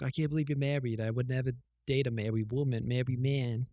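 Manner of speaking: put-on slightly goofy accent, a bit like Adam Sandler. Podcaster retelling the girl's refusal to date a married man, in a put-on accent. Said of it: "I don't know why I'm doing that accent".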